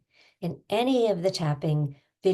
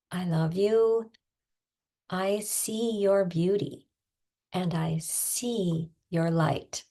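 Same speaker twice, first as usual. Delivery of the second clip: tender; slower than usual. Real, not acted. Coach closing the video with slow loving words to viewers. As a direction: linger on each word like a blessing.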